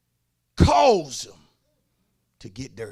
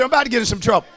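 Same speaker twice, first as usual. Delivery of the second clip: "I'm about to get in some trouble" said again, louder; repeated louder; 4 dB louder, much faster than usual. Real, not acted. Preacher repeating his warning to the congregation, louder. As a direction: say it again for the whole church to hear. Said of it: "I said".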